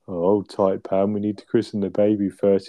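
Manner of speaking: flat, unbothered dry delivery; deadpan Trigger impression. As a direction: say it totally deadpan, lightly voiced. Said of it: "Just the way deadpan pipes up".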